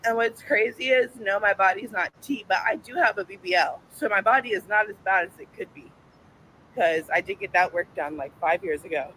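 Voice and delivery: breathless, talking through it; winded. Real, not acted. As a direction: still catching breath after stairs. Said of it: "I'm still winded".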